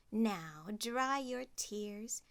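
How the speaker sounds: calm her tears kindly; gentle soothing. Acted. Godmother comforts Cinderella.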